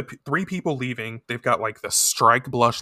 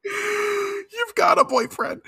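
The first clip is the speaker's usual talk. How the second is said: laughing quote; much slower than usual. Retold or imitated. Mocking quote while laughing.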